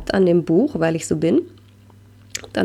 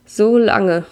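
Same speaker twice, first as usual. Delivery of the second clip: a touch of tearful stammer, slightly louder; stammering through tears; 3 semitones higher, 4 dB louder than usual. Acted. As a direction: falter on the words, half sobbing. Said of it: "stammel ich und schluchzig".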